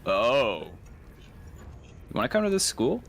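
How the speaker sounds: Dumbledore. Retold or imitated. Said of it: "And he was like".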